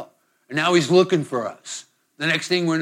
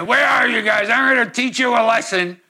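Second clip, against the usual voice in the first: stern threatening God; 5 semitones higher than usual. Acted. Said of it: "he's got a big club in his hand".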